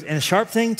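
put-on a small boy, wide-eyed with wonder; excited child voice. Son asking dad about the knife, in a high excited child voice.

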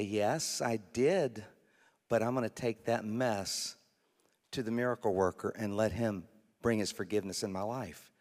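humble admission. Acted. Believer answering the enemy's accusation, low humble admission. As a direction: own up quietly and resolutely. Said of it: "And then you can say".

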